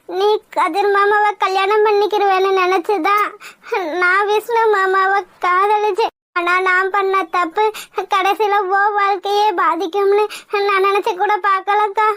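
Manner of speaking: slow, halting admission of guilt; remorseful confession. Acted. Girl apologising to sister for secret love, remorseful. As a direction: confess slowly, pausing between phrases.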